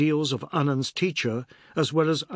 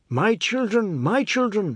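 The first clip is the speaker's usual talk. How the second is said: lamenting mother; 9 semitones higher, 3 dB louder than usual. Acted. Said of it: "Sharma said".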